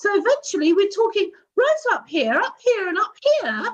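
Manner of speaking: very high, climbing voice. Explaining how our voices rise when talking to people at work, voice rising higher and higher. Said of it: "if our voice starts going higher and higher".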